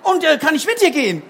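high, small bird voice; little bird voice. Acted. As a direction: ask like a tiny shy bird. Little bird asks donkey.

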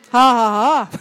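laughing on request. Shown as a demonstration. Teacher showing the children a big laugh, hearty. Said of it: "Wer kann denn von euch mal so richtig lachen".

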